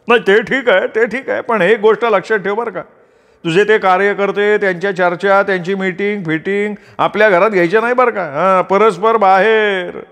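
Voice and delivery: high-pitched, insistent warning; objecting family member. A narrator's reading. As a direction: lay down the house rule in a high voice.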